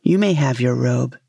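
lightly voiced low fisherman; a hint of a relenting fisherman. A narrator's reading. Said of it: "said the fisherman".

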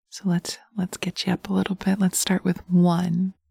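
sensual hypnotic ASMR. Acted. Dominant partner guiding the listener through hypnosis, intimate murmur. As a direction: coax the listener like a lover in their ear.

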